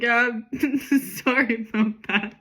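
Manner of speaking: sheepish police apology through giggles; giggly mock apology; laughing apology. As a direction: crack up while saying sorry. Laughing as she voices police.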